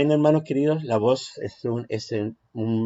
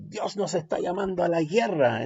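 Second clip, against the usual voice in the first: higher and stronger; raised volume; 4 semitones higher, 4 dB quieter than usual. Shown as a demonstration. Teacher demonstrating the raised-volume take of a sermon line. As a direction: lift the tone toward the end. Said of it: "subir el volumen".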